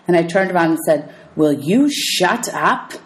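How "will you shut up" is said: snapping. Acted. Percy snaps at Nancy.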